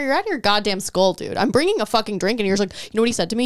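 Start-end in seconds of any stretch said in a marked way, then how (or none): 0.0-2.4 angry retort. Retold or imitated. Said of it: "I said".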